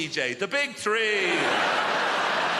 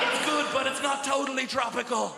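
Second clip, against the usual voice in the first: mock disappointed taster; 6 semitones higher than usual. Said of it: "you're like".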